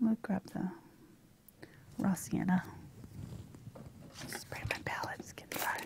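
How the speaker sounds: soft, unvoiced whisper.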